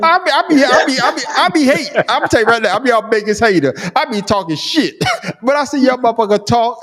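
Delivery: very high voice breaking into laughs; laughing confession. Real, not acted. Admitting to the co-hosts he's a hater, laughing. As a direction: gleefully confess it through laughter.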